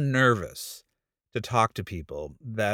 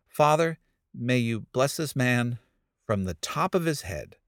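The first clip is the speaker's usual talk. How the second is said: cliche prayer. Retold or imitated. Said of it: "went into a cliche prayer".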